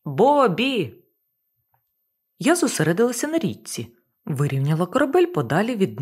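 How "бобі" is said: loud drawn call; yelling. Acted. Panicking captain yelling for Bobby, loud. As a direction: holler the name again. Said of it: "чимтуж горлала я".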